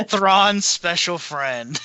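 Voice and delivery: slow, laughing tease; chuckling, teasing slow delivery. Real, not acted. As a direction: drag it out through a laugh. Joking about Rook.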